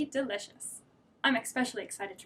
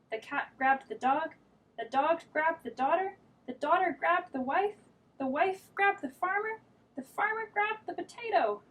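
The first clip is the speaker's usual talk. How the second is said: rising higher each line; building up; 6 semitones higher than usual. Acted. Narrator building tension as everyone pulls, rising higher. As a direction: climb in pitch with the strain.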